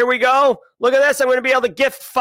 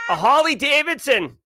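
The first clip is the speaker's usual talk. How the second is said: Boston accent again, a bit higher; one more Boston-style "A Harley Davidson"; 3 semitones higher than usual. Shown as a demonstration. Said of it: "my actual Boston accent".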